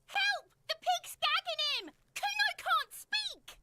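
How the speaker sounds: loud mock cry for help; fake shouting for help. Kid fakes calls for help.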